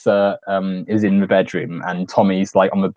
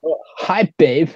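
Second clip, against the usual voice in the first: Tommy impression; 8 semitones higher than usual. Quoting Tommy's odd greeting.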